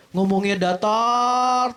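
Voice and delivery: one level, drawn-out monotone; flat intonation. Shown as a demonstration. Coach showing audience what to avoid, flat monotone. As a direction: stretch "datar" out on an unvarying note. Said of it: "intonasinya jangan datar terus".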